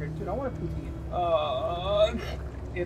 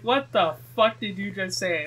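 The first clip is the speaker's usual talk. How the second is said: confused friends; 4 semitones higher, 7 dB louder, slower than usual. Retold or imitated. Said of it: "they're like".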